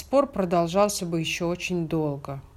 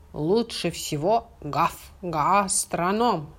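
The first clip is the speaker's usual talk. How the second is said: puppy voice; slower than usual. Acted. Puppy character speaks, stammering bark.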